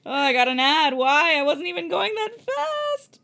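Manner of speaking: high, loud exasperated complaint; outraged whine. Real, not acted. Reader interrupted by an ad, loudly exasperated. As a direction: protest the ad in disbelief.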